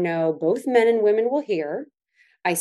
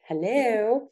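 mildly exasperated, higher-pitched hello; calling to tuned-out husband; 4 semitones higher than usual. Acted. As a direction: try to get his attention. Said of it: "it's like he tunes me out".

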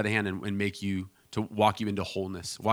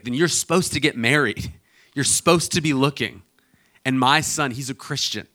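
imitating an insistent mom, higher pitched; overbearing mom; 4 semitones higher, 5 dB louder than usual. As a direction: press the case as a pushy mother. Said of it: "with an overbearing stranger".

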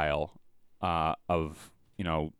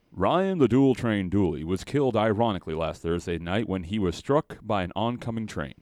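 news anchor voice. Acted. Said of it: "in a news voice?".

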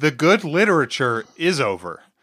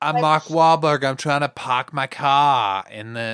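mock Boston accent with dropped Rs; Mark Wahlberg. Playing the actor parking his car, in Boston accent. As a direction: put on a broad Boston accent. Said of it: "Do a Boston accent".

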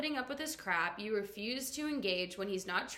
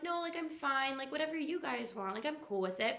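lightly voiced higher, airy brush-off; meek people-pleaser; 4 semitones higher, 4 dB quieter than usual. Girl walking into the room unsure of herself, mildly meek. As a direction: play a mild pushover going along.

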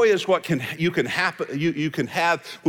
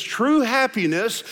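George Burns line slowed; 2 semitones higher than usual. Retold or imitated. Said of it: "that old line by George Burns".

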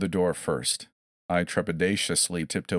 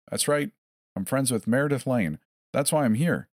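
enunciated clearly; 6 semitones higher than usual. A narrator's reading. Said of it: "I enunciated clearly".

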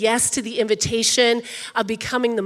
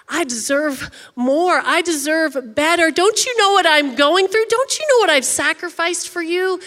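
entitled whining; 4 semitones higher than usual. Pretend. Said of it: "we think things like".

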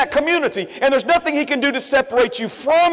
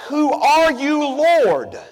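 a mildly raised cry of a blinded man; Saul crying out; 4 semitones higher, much slower than usual. Acted. Blinded Saul calling up to the light, mild cry. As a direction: call out in awe, a touch higher. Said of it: "Saul cried out".

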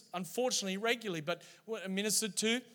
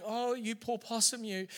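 mock pity; 3 semitones higher than usual. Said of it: "And, and I didn't say that".

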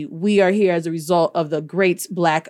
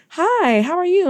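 high-pitched friendly hello; sweet wife's greeting; 9 semitones higher than usual. Retold or imitated. Wife greeting a fan who came up, friendly high voice. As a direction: imitate a sweet wife saying hi.

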